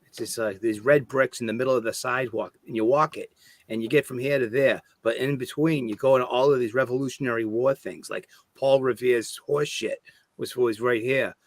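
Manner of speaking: mock local guide with a Boston accent; Boston tour guide. Local showing visitors the Freedom Trail, mock Boston guide. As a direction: show them round in thick Bostonian. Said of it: "Bostonian accent was so thick".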